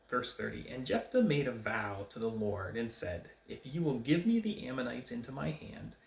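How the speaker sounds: measured, emphatic Bible reading aloud; scripture reading. Acted. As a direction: read the verse out to the congregation with lifted key words.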